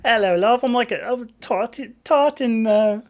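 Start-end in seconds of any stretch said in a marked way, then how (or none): 0.0-0.6 loud Cockney greeting; Cockney accent. Shown as a demonstration. Trying out remembered Cockney phrases, loud Cockney accent. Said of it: "All I can remember from Cockney". 0.9-3.0 higher, faltering stab at Cockney; failed Cockney attempt. Shown as a demonstration. Trying to remember Cockney, faltering accent. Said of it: "oh, it's not happening".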